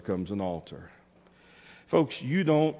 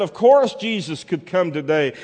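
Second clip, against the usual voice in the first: raised, insistent answer of a worn-down mother; imitated exasperated reassurance; exasperated mom; 7 semitones higher, 8 dB louder than usual. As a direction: agree loudly with a touch of exasperation. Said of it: "a little bit exasperated".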